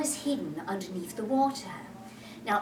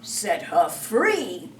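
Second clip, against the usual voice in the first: 1 stifled laugh fake Hook; 5 dB louder, much slower than usual. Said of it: "trying not to laugh".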